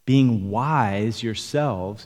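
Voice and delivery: mildly sarcastic scripture reading, drawn out. Acted. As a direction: read it slowly with a touch of sarcasm. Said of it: "He's being sarcastic here".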